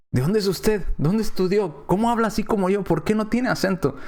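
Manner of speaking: mildly astonished questioning; acted surprise. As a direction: imitate someone surprised by a foreigner's fluency. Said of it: "nos quedamos sorprendidos".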